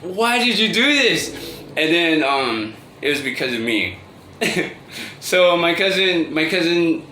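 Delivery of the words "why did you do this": higher-pitched imitation of a puzzled aunt; lightly voiced baffled auntie; bewildered, not mad. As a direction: ask in mock disbelief, without anger. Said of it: "She wasn't mad. She was just like".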